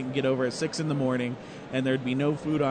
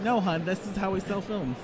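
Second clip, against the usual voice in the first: camp voice; 4 semitones higher, 3 dB quieter than usual. Retold or imitated. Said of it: "Or act gay".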